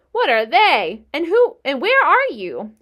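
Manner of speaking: high, loud frantic scream. A narrator's reading. Wilbur demanding the hidden voice reveal itself, screaming. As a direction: scream it out in desperation. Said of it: "screamed Wilbur".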